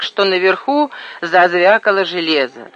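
ordinary delivery

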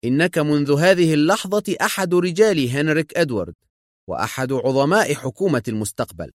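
proud proclamation starting high; triumphant. A narrator's reading. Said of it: "وتألقت عيناه ببريق الظفر".

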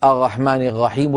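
"الرحمن الرحيم" with each ra as a throaty ghayn; defective ra. Shown as a demonstration. Teacher showing students a speech habit, "الرحمن الرحيم" with ghayn for ra. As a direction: say "الرحمن الرحيم" swapping every ر for a French-style r. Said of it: "شبيهة بحرف الغين".

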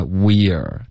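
WE'RE as one fused "weer" syllable; blended form. Shown as a demonstration. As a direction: blend WE'RE slowly into a single sound. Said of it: "它的融合音". (示范融合音：we're)

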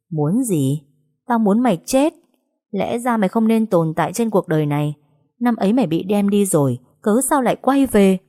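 rising into a venomous snarl; hateful threat. Acted. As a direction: spit the hatred at her, building. Villain declares death wish. (chị Hạnh rít lên căm hận)

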